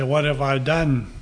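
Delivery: weight on "done", falling away at the end; stress on done. Shown as a demonstration. Preacher showing emphasis, "done" stressed with a fall. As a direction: land hard on "done" in "What have I done?". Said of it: "it makes a difference where we put the emphasis".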